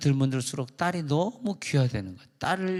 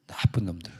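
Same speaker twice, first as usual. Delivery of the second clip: whispered mock insult under the breath; pastor's joking aside to the congregation, whispered; 6 semitones lower than usual. Whispered joking insult, then "joke.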